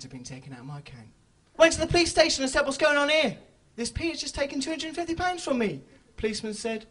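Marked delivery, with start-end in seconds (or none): 2.6-5.8 fast, loud outraged complaint; hurried, loud indignant protest. Retold or imitated. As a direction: storm in demanding answers. Complaining at the police station.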